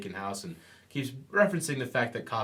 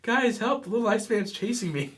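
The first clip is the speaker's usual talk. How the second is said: high, louder hammed-up cry for help, laughing through it; panicked thug; 11 semitones higher, 3 dB louder than usual. Thug fleeing Iceman calls his friends, squealing and laughing.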